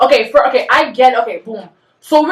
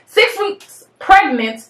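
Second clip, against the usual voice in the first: slow, heavy, spelled out; seething anger; 4 semitones higher, much slower than usual. Real, not acted. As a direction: spit each word out slowly. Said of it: "I'm so pissed off".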